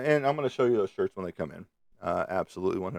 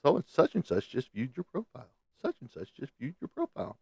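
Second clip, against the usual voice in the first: mock notification voice; 2 semitones higher than usual. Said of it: "it informs me".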